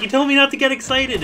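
high mock-outraged yell. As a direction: yell it high, like you were betrayed. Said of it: "And I was like".

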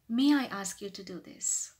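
courteous question, lightly lifted at the end; humble polite request. Shown as a demonstration. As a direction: ask permission politely. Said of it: "try to sound more humble".

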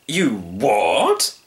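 drawn-out, swooping question; astonished storybook hunter; incredulous hunter. Acted. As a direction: react with theatrical disbelief.

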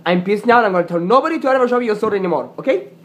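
fed-up customer ranting at the store; fast angry rant. Pretend. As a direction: spit it out fast in outrage.

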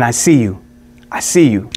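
lightly voiced Neo, low and sure; Neo's line. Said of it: "he says".

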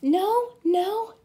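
put-on high, loud child's protest; loud refusal. Toddler refusing bedtime, loud high no. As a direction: shout no like a stubborn toddler.

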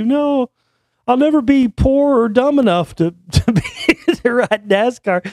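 squeaky cartoon kid insisting, laughing midway; Cartman. Cartoon kid snaps back at friends, high and squeaky. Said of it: "And they're like".

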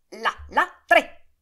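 "Là, là, tre" gridato forte e acuto; grido finale. Acted. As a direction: urla il colpo maestro con trionfo. Blasco dà il colpo finale. (Blasco grida il colpo decisivo al principe, forte)

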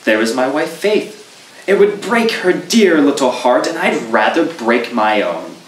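mildly vexed, defending his wife; nettled. Acted. Goodman Brown, nettled, answering the traveler about Faith. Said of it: "considerably nettled".

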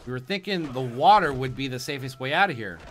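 lively, lightly acted boat repairer; lightly voiced boatman. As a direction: read it as a game boatman, emphatic. Reads boatman's quest text in character.

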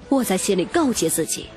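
plain reading voice

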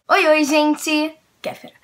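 loud drawn-out youtuber hello; Kéfera greeting. Retold or imitated. Imitating a famous youtuber's opening. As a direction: belt it out like a big youtuber. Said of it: "no YouTube temos o quê?".

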